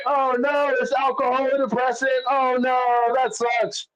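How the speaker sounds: high, sing-song fake concern; mock sympathy. Mocking his crying girlfriend on the floor, high fake sympathy. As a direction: pretend to care while clearly not.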